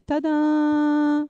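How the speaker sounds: high, bright ta-da for the camera; ta-da reveal. Real, not acted. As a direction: present it like a magic trick. Showing off the paper crane.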